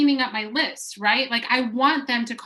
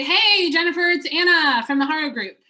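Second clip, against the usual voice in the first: bright, upbeat phone greeting, higher and louder on hey; cheery voicemail greeting; 4 semitones higher, 4 dB louder than usual. Shown as a demonstration. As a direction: leave a chipper sales voicemail. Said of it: "I say".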